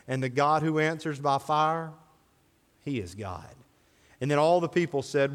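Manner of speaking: measured, solemn Bible reading voice; scripture reading. Acted. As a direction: read the passage with gravity.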